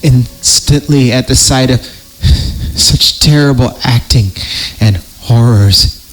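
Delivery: slow, ominous storyteller read; creepy story narration. Acted. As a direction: read it like a campfire horror tale.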